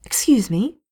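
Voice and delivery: floored by what he said; stunned. Acted. Vivian startled by Blackwall's confession, stunned.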